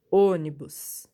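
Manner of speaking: Ônibus with a loud opening Ô; antepenultimate stress. Shown as a demonstration. Teacher giving a proparoxítona example, stressing the antepenultimate. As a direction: hit the first syllable of Ônibus hard. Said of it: "antepenúltima também".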